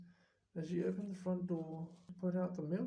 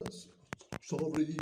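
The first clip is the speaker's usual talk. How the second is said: sobbing; 4 dB louder than usual. Acted. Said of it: "sobbed Hagrid".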